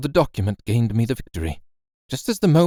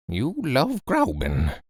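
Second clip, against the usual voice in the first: slow, softer, drifting off in thought; dreamy; 4 dB quieter, slower than usual. Acted. Guardian muses on his nephew's love, dreamy and soft. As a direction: murmur it as if lost in a memory. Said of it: "he went on once or twice dreamily".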